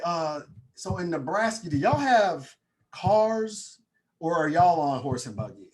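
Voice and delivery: slow mock country drawl; country accent. New Yorker's last disrespectful question, mock country accent. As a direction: ham up a country accent, dragging out the key words. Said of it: "the ultimate disrespectful question".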